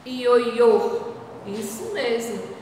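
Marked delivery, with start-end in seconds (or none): 0.1-1.1 "Ioiô" stressed closed final Ô; closed ô demo. Shown as a demonstration. Teacher repeating the word, closed Ô. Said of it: "O som fechado".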